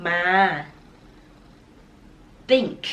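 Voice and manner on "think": teacher modelling think; th sound demo. Shown as a demonstration. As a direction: think with the tongue touching the upper teeth. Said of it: "เอาลิ้นแตะไว้ที่ฟันบน".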